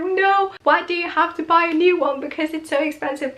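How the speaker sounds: upset protest. Retold or imitated. Girlfriend upset about lost ring.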